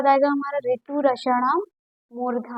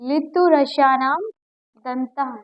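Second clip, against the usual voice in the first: slow recitation; slower than usual. Shown as a demonstration. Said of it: "क्या आता है?".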